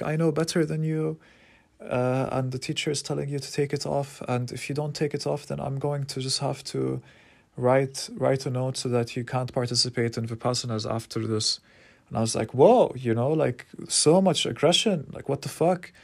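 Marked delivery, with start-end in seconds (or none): 0.0-11.6 raised, lecturing mock voice; imitating the stern teacher. Teacher threatening the speaker, higher mock lecturing voice. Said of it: "She's like". 12.5-15.9 high, loud startled protest; shocked whoa. Retold or imitated. Speaker recoiling from the teacher's aggression, high loud protest.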